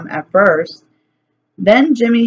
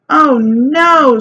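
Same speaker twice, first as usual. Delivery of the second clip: higher, louder cry of alarm; mild scream; 7 semitones higher, 5 dB louder than usual. A narrator's reading. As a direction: gasp it out in horror. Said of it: "Sheila screamed".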